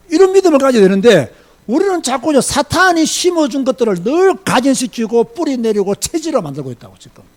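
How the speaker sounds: ordinary talk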